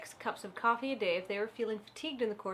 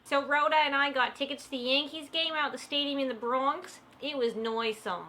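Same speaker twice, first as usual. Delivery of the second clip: hammed-up New York accent; lightly put-on New York accent; weird accent; 3 semitones higher than usual. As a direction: talk like a Yankees fan with a New York accent. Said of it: "this is weird accent hour".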